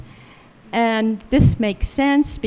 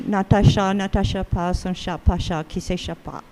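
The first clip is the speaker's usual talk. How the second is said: English-accented French; 4 semitones lower than usual. Shown as a demonstration. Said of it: "This is my English accent".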